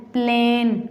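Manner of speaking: प्लेन with a long "ay" vowel; long A sound. Shown as a demonstration. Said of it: "इसे हम long करके पढ़ते हैं".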